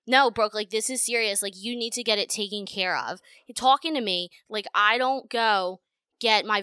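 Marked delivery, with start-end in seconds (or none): 0.0-3.2 mock insistent boyfriend. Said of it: "And he was like".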